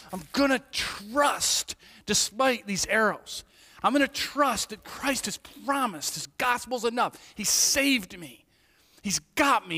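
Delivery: defiant trust. Acted. Believer declaring trust against arrows.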